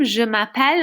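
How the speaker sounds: je m'appelle said the French way, stressed on the final -pelle; correct French pronunciation. Shown as a demonstration. French teacher models the phrase for students, correct French pronunciation. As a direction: say m'appelle with a French ending, "ma-PELL". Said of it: "it's not je m'appelle".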